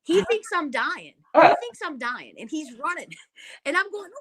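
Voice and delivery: usual speaking voice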